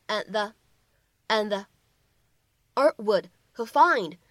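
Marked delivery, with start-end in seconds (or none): 0.1-1.6 "and the" with the d held; unreleased d linking. Shown as a demonstration. Teacher modelling the linked "and the" for students. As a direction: say "and the", d not released. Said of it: "我们可以读成".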